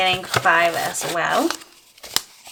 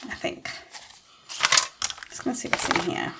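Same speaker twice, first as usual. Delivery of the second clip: quiet mutter; 7 dB quieter, much faster than usual. Real, not acted. Muttering while checking envelope.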